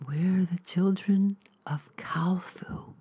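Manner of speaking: slow, breathy whisper in his ear. Acted. Cultist whispers into Neil's ear, afraid of being heard. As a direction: hush it as if someone might overhear. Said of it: "whispering it into his ear".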